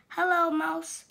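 high, loud cheerful hello; cheery greeting. Acted. Duck greeting Sheep from his bike, bright and loud. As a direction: sing out a friendly hi. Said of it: "said Duck".

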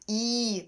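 «і» held as one long vowel; long I sound. Shown as a demonstration. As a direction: stretch «і» into a single long ee. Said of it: "читаються як один довгий". (довгий звук «і»)

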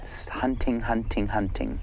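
slow, hushed whisper. Real, not acted. Guide watching the snake hunt, slow whisper. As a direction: breathe the words as it hunts.

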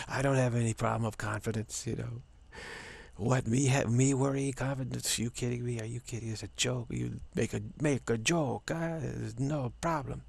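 lightly voiced Italian-tinged Spanish braggart; Juan Carlos, slight Italian-Spanish accent. Confident friend scoffing at worry, slight Italian-Spanish accent. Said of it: "has a slight Italian accent".

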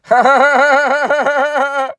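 high, loud pained laugh; despairing laugh. Real, not acted. Loud despairing laugh at his crashing portfolio.

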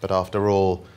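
sad poem reading. Acted. Comic poet reading a sad poem to the audience, solemn. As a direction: read it like a mournful elegy.

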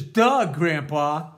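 loud, mocking "duh" to Grandpa; sarcastic kid. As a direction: act a kid who knows it all already. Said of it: "Kid says".

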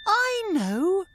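shouted. A narrator's reading. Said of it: "shouted Merinda".

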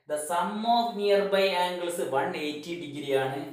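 "The sum of nearby angles" drawn out very slowly; teacher dictating a rule into notebooks, very slowly; slow dictation. Shown as a demonstration. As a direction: dictate each word for copying. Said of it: "നിങ്ങൾ നോട്ട്ബുക്കിൽ എഴുതിയെടുക്കണം".

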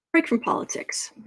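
hushed aside; whispering. Real, not acted. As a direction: whisper it to yourself.

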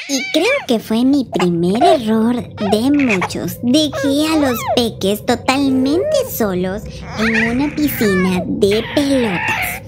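slow, deliberate confessional narration; measured storyteller voice; story narration. A narrator's reading. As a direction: recount the mistake slowly, word by word.

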